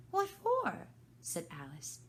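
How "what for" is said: surprised. Acted. Alice surprised.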